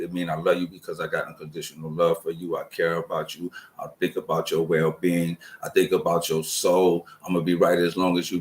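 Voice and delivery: soft, low and heartfelt; tender sincerity. Real, not acted. Explaining unconditional love to someone dear, tender.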